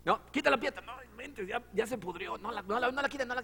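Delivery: high, whiny mock protest; mocking Martha. Martha whining to Jesus not to move the stone, high and mocking. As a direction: whine it like a fussy sister. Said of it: "Marta le acaba de decir".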